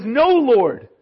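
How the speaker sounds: a hammed-up Peter no; Peter refusing. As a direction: snap back a firm refusal. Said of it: "So he says".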